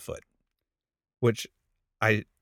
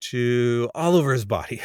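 relieved cliche prayer; 3 semitones higher than usual. Retold or imitated. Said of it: "and so I go".

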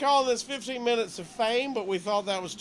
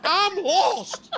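laughing; 10 semitones higher, 5 dB louder than usual. Real, not acted. Laughing banter.

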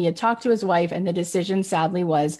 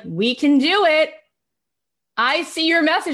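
confident mock Angela; 8 semitones higher, 3 dB louder than usual. Angela assuring Kathy they can do it, high and sure. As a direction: reassure her it can be done.

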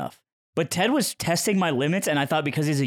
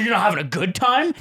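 pitched-up mock indignation; retold offence; 4 semitones higher than usual. Ted offended by his reply, mock indignant. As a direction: imitate a friend taking offence, rising question. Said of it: "he got mad".

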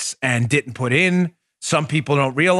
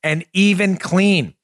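brisk, upbeat sponsor read; friendly host-read commercial. Acted. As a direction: sell it like a podcast ad.

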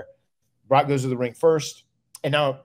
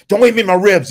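much higher, louder cranky order; testy warning; 8 semitones higher, 10 dB louder than usual. Retold or imitated. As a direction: snap it like a hurting, grumpy champ. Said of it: "He was really, really testy".

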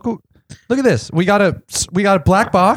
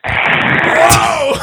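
surprised whoa. Real, not acted. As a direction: shout out in delighted surprise. Reacts to echoing guest.

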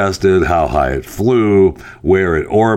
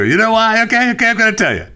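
excited; much faster than usual. Real, not acted. Playful teasing aside.

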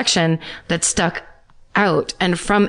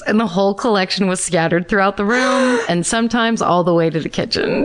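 trying not to smile; 3 semitones higher than usual. Real, not acted. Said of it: "I can't stop smiling".

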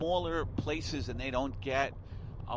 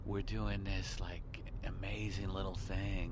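smug attitude; 6 semitones lower, 7 dB quieter, slower than usual. Retold or imitated. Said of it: "he had this fucking attitude".

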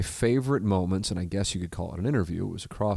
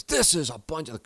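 angry outburst; 8 semitones higher than usual. Retold or imitated. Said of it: "and he goes".

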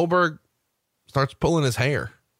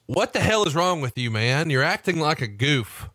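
retold scream; 4 semitones higher than usual. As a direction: retell an exasperated outburst. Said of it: "And he screams".

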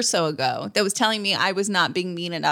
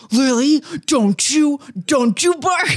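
a higher, mock-scolding impression of his wife; imitating her tone; 5 semitones higher, 4 dB louder, slower than usual. Husband mimicking his wife scolding the dog, mock and higher. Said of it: "Do you want me to try to do it?".

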